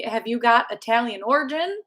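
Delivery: put-on half-hearted Italian accent, lightly lilting; amateur attempt at sounding Italian. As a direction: have a clumsy go at an Italian accent. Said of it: "that was my Italian accent".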